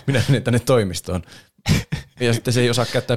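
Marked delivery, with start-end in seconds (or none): 0.1-1.2 posh Karvinen voice. Retold or imitated. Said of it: "se hienosta Karvisen ääni".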